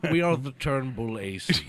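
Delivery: slow, droll host announcing the gang; deadpan TV host, slowly; Hitchcock impression. Hitchcock-style intro of gang.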